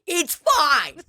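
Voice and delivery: high, breezy mock calm; reassuring herself. Tina assuring coworker she has it handled, high mock calm. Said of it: "I go".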